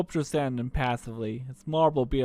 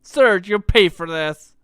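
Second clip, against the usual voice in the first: slow, louder menacing growl; growled threat; 5 semitones higher, 10 dB louder, slower than usual. Acted. Kid threatening Serge, growled. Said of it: "growled Kid".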